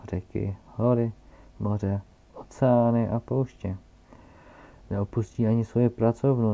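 put-on loud pompous old scholar lecturing; old geographer. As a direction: hold forth like a self-important academic. (zeměpisec hlasitě a povýšeně vykládá o své práci)

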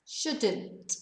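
"shouldn't" said clearly with a falling end; model pronunciation. Shown as a demonstration. Teacher to Spanish learners, modelling "shouldn't" clearly. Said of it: "this is how they're pronounced".

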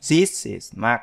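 This is Mark linked smoothly, rising on this; linked sounds. Shown as a demonstration. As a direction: run this is together in This is Mark. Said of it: "Các bạn nhớ nối âm này".

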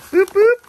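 high, loud squeaky boop boop; playful boop sound. Pretend. Squeaky playful boops while opening a gift. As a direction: squeak it out like a toy.

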